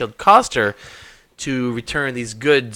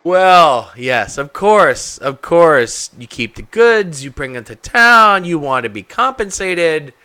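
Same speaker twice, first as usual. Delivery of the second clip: sarcastic shopkeeper; 4 dB louder, much slower than usual. Acted.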